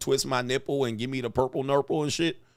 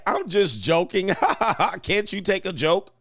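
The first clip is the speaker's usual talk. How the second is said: higher, mocking "just kidding" voice with a fake laugh; passive-aggressive joking; 6 semitones higher, 3 dB louder than usual. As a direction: imitate a needling joker laughing it off. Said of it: "passively aggressively".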